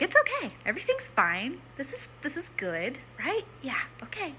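calm someone down gently; reassuring. Retold or imitated. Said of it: "like, reassuring".

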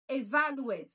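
"Evaluate" with VAL stressed; stress on second syllable. Shown as a demonstration. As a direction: punch the second syllable of "Evaluate", then fall. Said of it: "That's the right pronunciation".

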